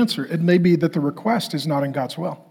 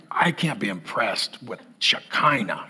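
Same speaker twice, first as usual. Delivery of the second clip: much lower and softer, deadpan macho; lower, dry tough-guy voice, a touch mocking; blunt tough guy; 9 semitones lower, 8 dB quieter than usual. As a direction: say it like a working man unimpressed.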